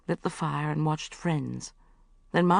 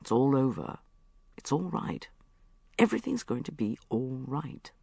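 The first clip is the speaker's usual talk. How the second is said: low, soft soothing hush; comforting; 4 semitones lower, 4 dB quieter than usual. Acted. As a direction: hold her and calm her down. Mark comforting sobbing Bridget.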